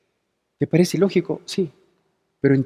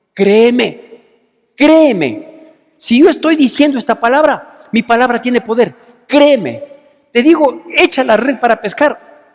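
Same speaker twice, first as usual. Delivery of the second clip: urgent Jesus; 4 semitones higher, 4 dB louder than usual. Acted. Preacher voices Jesus urging Peter.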